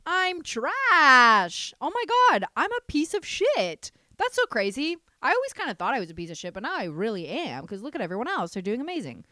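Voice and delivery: loud, high, spiralling self-insult; mock panicked self-talk. Scrolling online and panicking about being worthless, loud and high. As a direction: freak out at yourself over everyone's perfect lives. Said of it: "be like".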